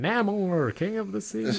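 put-on very high, slow, old-fashioned TV announcer voice. Joking about how someone might read a name aloud: old-timey tv voice. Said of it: "a old-timey T V voice".

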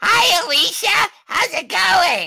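put-on animatronic character voice. Greeting a viewer's friend on request: Funtime Freddy voice. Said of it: "If you can say in Funtime Freddy's voice".

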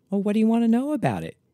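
sugary, sweet, very high-pitched voice. Narrator reading their own reply when a man asks about the mannequin, sweetly. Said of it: "I asked sweetly".

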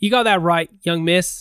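put-on New York doorman voice, accent drifting into Australian. Playing a proper new york door guy: new york doorman voice, drifting australian. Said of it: "You drifted into Australian".

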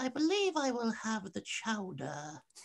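little high voice, soft, hushed and slow. Retelling a story of overhearing a voice in a cafe: little Winnie the Pooh voice. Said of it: "he heard this little voice saying".

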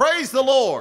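excited, very high, loud, slow belted exclamation. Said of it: "the newcomer said".

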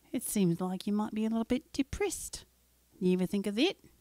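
put-on Australian or New Zealand accent. Joking about depression in a put-on voice: Australian or New Zealand accent. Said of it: "when I say it in that accent".

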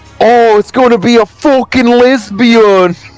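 put-on heavy British accent, pitched very high. Retelling what a guy said at a gender reveal, in a thick british accent. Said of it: "said in a really thick British accent".

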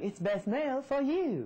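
put-on very high, slow little-girl voice. Recalling the voice made for his mail alerts, doing a little Japanese girl voice. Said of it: "it was supposed to sound like this little Japanese girl".

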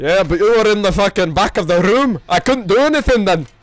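put-on Scottish accent, young man voice. Gamer answers another player while playing, in a put-on scottish accent. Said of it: "I just answer a serious question with a Scottish accent".

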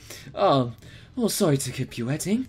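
put-on soft voice with a slight British accent. Voicing Lady Blanc as she greets the waiting group, Lady Blanc, slightly British. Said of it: "I made her a little British there".

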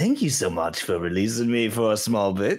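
laughing, cackling delivery. Game narrator voicing a figure appearing behind the player, cackling. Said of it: "cackling behind you".

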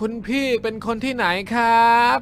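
mocking, drunken, giggly tone. Waen asks a question, teasing and giggling like a drunk. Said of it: "แว่นถามเสียงยียวนพลางหัวเราะคิกคักแบบคนเมา".

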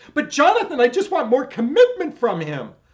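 very loud, overly dramatic, swooping, pleading tone. A coach acts out a client on a coaching call, mock overly dramatic client. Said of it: "I'm being overly dramatic".

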